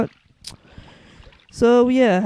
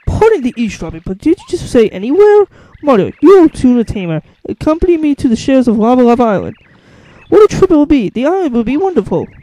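lightly voiced eager character; 6 dB louder than usual. Voicing character inviting Mario.

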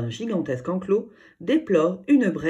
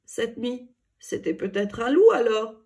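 higher, hesitant worried question; small voice; 6 semitones higher than usual. A narrator's reading. Samy asking his sister about the night howl, small scared voice. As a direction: ask it timidly, half afraid of the answer. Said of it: "demande-t-il d'une petite voix".

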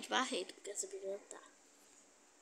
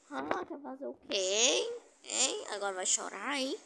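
taunting; 4 dB louder than usual. Real, not acted. Taunting a caught opponent.

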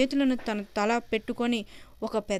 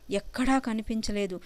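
usual speaking voice

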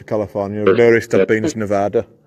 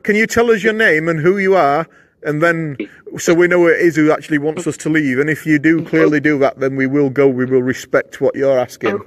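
raised, coaxing call to a spirit; talking to a ghost; 2 semitones higher than usual. Real, not acted. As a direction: ask the empty room, hopeful and careful. Questioning the spirit.

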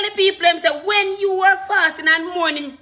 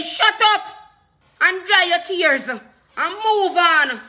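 stern rebuke; slower than usual. Acted. Preacher voices God rebuking the criers.

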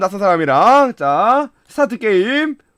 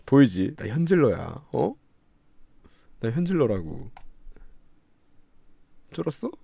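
much lower and softer threat; low menacing taunt; 11 semitones lower, 11 dB quieter than usual. Pretend. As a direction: gloat quietly at him. (낮게 깔고 위협하듯)

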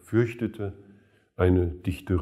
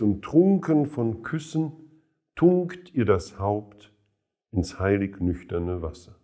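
quoted verse recitation. Acted. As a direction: recite it as verse, raised on the first phrase. Quotes verses inside commentary.

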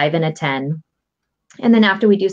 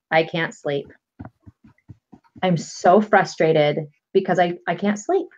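frustrated tapping demo. Shown as a demonstration. Coach demonstrates tapping round, weary and frustrated. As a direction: vent it tiredly like a sleepless adult. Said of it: "it would sound something like".

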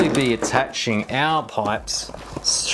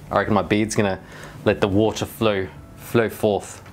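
muffled inside snorkel mask; speaking through a face mask; 3 semitones lower, 3 dB quieter than usual. Real, not acted. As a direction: voice behind mask visor. Seen 1: Woman wears full-face mask throughout; some lines likely from off-screen man.

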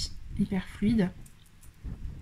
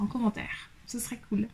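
whispered aside; 5 dB quieter than usual. Real, not acted. Asking viewers for dress ideas, whispered aside. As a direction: drop to a whisper for the last words.

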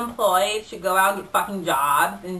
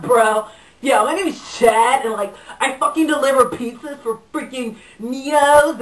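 lightly voiced surfer stoner dude; a hint of surfer-dude speech; Chad. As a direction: ramble like a laid-back, enthusiastic stoner bro. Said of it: "Chad is a surfer type dude".

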